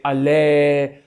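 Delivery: "allez" drawn out in French; French stalling "allez"; French filler word. Retold or imitated. Imitating French speakers filling the gap, French accent. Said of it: "or they say".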